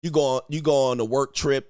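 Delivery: ordinary delivery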